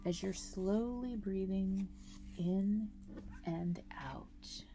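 guided meditation. Acted. Guide leading listeners through a grounding breathing meditation, calm meditation voice. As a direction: guide them through each breath, unhurried, drawing out key words.

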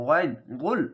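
"গয়ন, গুল" with a heavy ghayn from a tightened throat; thick, squeezed throat. Shown as a demonstration. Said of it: "মোটা করে গলা চিপে". ("গয়ন, গুল" গলা চিপে মোটা করে)

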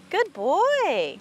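high, drawn-out praise with a falling tune; horse praise. Real, not acted. Trainer rewards nervous horse for holding, high praise.

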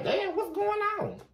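high, laughing mock whine; squeaky hammed-up plea between laughs; frustrated partner. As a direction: imitate a lover fed up with waiting, giggling. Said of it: "You sitting up like".

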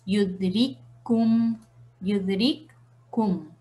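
yudrikkum lento, con k doble retenida; retén la k de yudrikkum antes de kum; letras unidas. Shown as a demonstration. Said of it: "vamos a decir yudrikkum". (yudrikkum pausado, la k reforzada)

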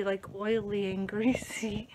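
soft unvoiced whisper. Real, not acted. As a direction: breathe the words without voice. Whispered aside.

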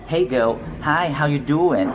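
casual friendly greeting. Retold or imitated. Retelling how he greeted a friend, friendly and bright. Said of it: "ผมถามว่า".

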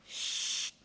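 soft unvoiced hush; whispered shush. A narrator's reading. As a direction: breathe the shush. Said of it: "dit le Père Noël".

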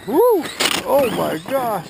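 amazed exclaim. Real, not acted. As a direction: stretch it out in real awe. Watching the RC car.

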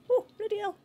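high, loud outburst; exasperated yelp. Real, not acted. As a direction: yelp out in alarm. Startled by near miss in game.

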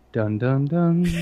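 a cheesy ominous jingle; mock dramatic music. Host closing the parents' warning with a sting. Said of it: "cue the music".

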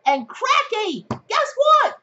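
put-on high, slow Aussie accent for viewers; Australian accent. Aussie accent teasing her tarot viewers. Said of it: "I'm done with my Australian accent".

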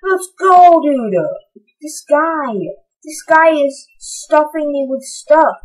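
delighted at all the loot; happy excitement. Real, not acted. Cheering the generous piglin.

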